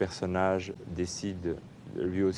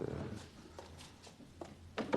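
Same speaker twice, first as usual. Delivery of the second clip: trailing off; 15 dB quieter than usual. Real, not acted. Voice fades out unvoiced.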